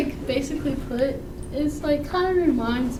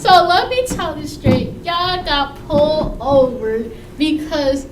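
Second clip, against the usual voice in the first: laughing stern dad; 4 dB louder, slower than usual. Retold or imitated. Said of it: "then he be like".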